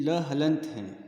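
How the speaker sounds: ल हलंत said slowly, the ल cut off with no vowel; half letter sound. Shown as a demonstration. Teacher showing students the half letter, slow and deliberate. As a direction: spell out ल हलंत syllable by syllable. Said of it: "इसको हलंत कहते हैं".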